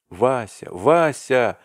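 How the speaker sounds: loud, rising, desperate calling of the name; desperate cry. A narrator's reading. Arkady cries out in despair to his frozen friend, loud. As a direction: call out in despair. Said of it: "вскричал Аркадий Иванович в отчаянии".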